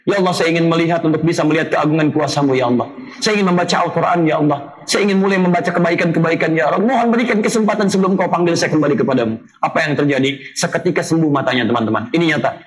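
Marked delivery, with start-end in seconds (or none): 0.1-9.4 retold prayer. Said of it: "Orang ini berdoa".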